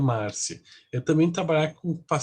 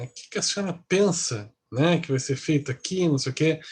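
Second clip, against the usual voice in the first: mock confrontation. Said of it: "com aquela mexida de".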